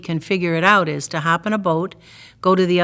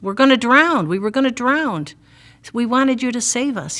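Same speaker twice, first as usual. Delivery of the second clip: higher, hammed-up frightened plea; mock panic; 5 semitones higher than usual. Disciples to Jesus in the storm, mock panic. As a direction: play the scared disciple, lightly.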